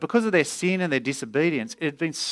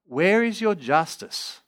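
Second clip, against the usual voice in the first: higher, drawn-out pleading; Habakkuk crying out; 4 semitones higher, slower than usual. Acted. Preacher voices the prophet challenging God about injustice, crying out. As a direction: plead with God in pained, insistent questions. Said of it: "Habakkuk is basically crying out to God".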